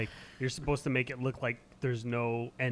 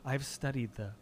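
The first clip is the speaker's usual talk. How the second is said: pompous amateur; 3 semitones lower than usual. Retold or imitated. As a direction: speak like a pretentious artist. Pretentious amateur voiced.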